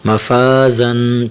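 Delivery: مفازن with a firm, hard ز sound, drawn out slowly; heavy z. Shown as a demonstration. Teacher showing the hard ز in مفازن. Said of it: "زا کو سختی کے ساتھ ادا کرنا ہے".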